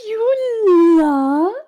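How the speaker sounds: can't believe what she just heard; surprised. Acted. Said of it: "she's like".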